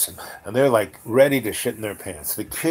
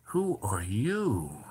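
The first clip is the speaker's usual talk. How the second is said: retold strange man; 4 dB quieter, much slower than usual. Retold eerie man addressing teller.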